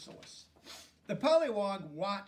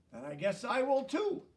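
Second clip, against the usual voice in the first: bright, higher, louder glee; cheerful and pleased to join in; happily; 7 semitones higher, 6 dB louder than usual. A narrator's reading. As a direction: pollywog gladly decides to change with his friend. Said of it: "the pollywog said happily".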